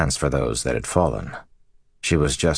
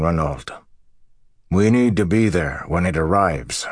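lightly voiced farmer, a little higher and firmer; earnest borderlander friend; 4 semitones higher than usual. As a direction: give an urgent warning to an old friend. Voices friend warning of the storm.

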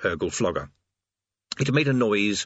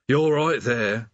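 mournful; slower than usual. Acted. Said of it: "said the demon mournfully".

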